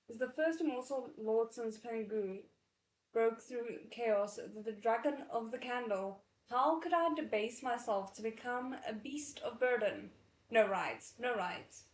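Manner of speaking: proud little dragon refusing; boastful, indignant dragon; haughty dragon voice. Acted. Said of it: "Wait, hold on. Sorry".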